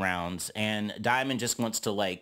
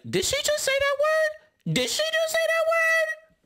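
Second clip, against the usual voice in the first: squeaky high falsetto disbelief, much higher; shocked high voice; 3 dB louder than usual. Retold or imitated. Jayla reacting to the slur, squeaky high disbelief. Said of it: "Jayla is like".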